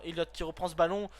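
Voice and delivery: Elliott said the French way, stress on the last syllable, el-YOTT; name read as a French word; French accent. Shown as a demonstration. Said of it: "je vais le dire avec l'accent français".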